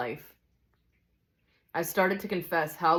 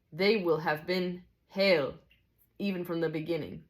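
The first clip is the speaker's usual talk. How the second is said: raised, deliberate amateur Scots; storybook Scotsman, lilting and measured; Scottish teacher; 4 semitones higher than usual. Acted. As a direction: teach solemn mysteries in a Scottish character voice.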